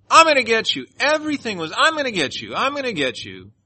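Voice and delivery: imitating a hostile woman's threats; mock threat. Retold woman threatening everyone.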